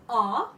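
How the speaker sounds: A said as an open "ah"; French A sound. Shown as a demonstration. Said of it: "if we take only A".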